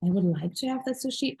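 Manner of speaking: mock-hesitant, wistful ordering; timid mock request to a waiter; tentative wishing. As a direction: wish aloud with hesitant pauses. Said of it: "Are you talking like this to the waiter".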